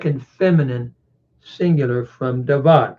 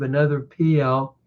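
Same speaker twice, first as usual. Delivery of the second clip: ordinary delivery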